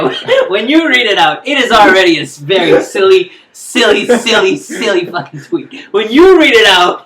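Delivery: loud, laughing emphasis. Real, not acted. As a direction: laugh while stressing it.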